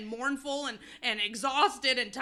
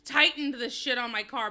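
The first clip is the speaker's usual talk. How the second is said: laughing while complaining, louder; 3 semitones higher, 7 dB louder than usual. Real, not acted. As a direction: laugh through the gripe about the stuck cap. Laughing exasperation over stuck cap.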